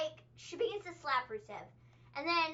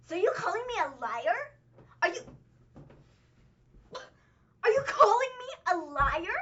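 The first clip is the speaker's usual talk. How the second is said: rising, louder accusing imitation of Lana; mock-indignant wife demanding an answer, louder at the end; Lana impression; 4 semitones higher, 6 dB louder than usual. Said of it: "That's my Lana impression".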